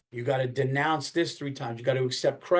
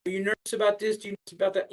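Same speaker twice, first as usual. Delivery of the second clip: mock questioner; 6 semitones higher, much faster than usual. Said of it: "People always wonder".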